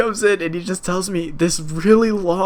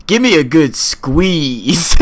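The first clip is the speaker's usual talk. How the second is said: mock old man; 6 dB louder, much slower than usual. Buster asks for a handshake.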